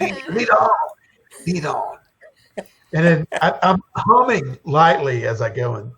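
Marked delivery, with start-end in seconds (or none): 0.0-0.7 raised, voiced call to move; urging onward. Blindfolded follower urging his guide, raised call. 1.5-2.0 voiceless whisper to move on; whispered urging. Acted. Blindfolded follower urging his guide, whispered.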